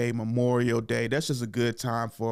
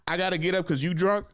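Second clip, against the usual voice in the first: higher, laughing disbelief; laughing incredulous; 6 semitones higher than usual. Retold or imitated. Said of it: "I'm like".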